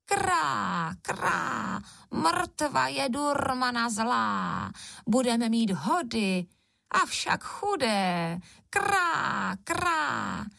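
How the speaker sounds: high, croaking crow speech, partly slow. Acted. Crows gloat over the dead witch, croaking high. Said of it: "Nad jejich hlavami letěly dvě vrány".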